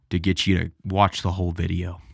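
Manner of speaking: hushed, breathy aside; conspiratorial whisper. Acted. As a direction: whisper it like a sneaky secret. Aside about attention tricks.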